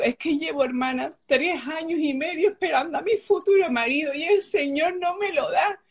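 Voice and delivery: put-on childlike pleading. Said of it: "como el de una niña chica".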